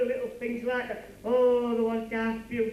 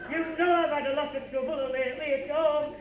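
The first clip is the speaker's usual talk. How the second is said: hammed-up blubbering, pitched up with laughs breaking through; mock crying; 5 semitones higher than usual. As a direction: play a big baby whining through fake tears. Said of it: "What are you crying for?".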